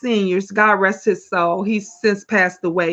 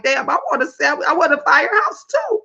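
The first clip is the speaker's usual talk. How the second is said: higher-pitched envious whine; playful mock longing; mock craving; 5 semitones higher, faster than usual. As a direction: imitate a viewer who suddenly wants one too. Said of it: "Gonna be like".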